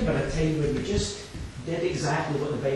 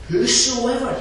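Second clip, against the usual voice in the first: loud; 9 semitones higher, 8 dB louder than usual. Acted. Repeated key word, loud take.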